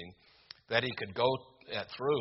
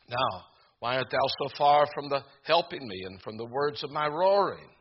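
crying out; 4 dB louder than usual. Retold or imitated. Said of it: "as he's crying out".

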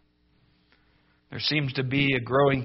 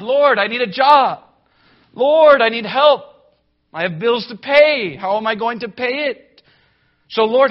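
higher, louder desperate plea to the Lord; pleading prayer; 6 semitones higher, 8 dB louder than usual. Retold or imitated. Jobless believer crying out to God, pleading loudly. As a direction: beg God for a job like you're drowning in bills.

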